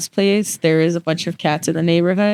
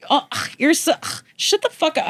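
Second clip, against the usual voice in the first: exasperated mock retort; 10 semitones higher than usual. Annoyed at boyfriend.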